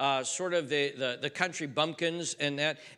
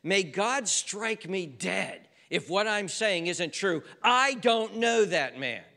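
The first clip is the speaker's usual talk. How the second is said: raised, slow sworn oath; a pleading vow of innocence, pitched up and drawn out; solemn oath; 5 semitones higher, 5 dB louder, slower than usual. Retold or imitated. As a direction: swear it before God, slowly and higher. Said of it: "He, he's saying something like this".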